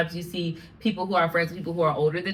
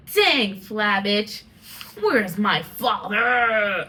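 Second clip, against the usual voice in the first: mock lament; 3 dB louder, much slower than usual. Dramatic grief amid happy moments.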